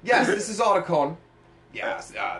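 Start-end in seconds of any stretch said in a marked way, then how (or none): 0.0-1.2 higher, louder nerdy radio voice; mock Otacon answering the radio. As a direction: play Otacon on the codec. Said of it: "another Metal Gear voice".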